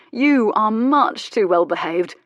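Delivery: You set apart with emphasis, slow line; emphatic, slow "You" as a pointed dig; stress on You. A narrator's reading. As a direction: lean pointedly on "You", then draw out the rest. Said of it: "Something about the emphasis on the word you".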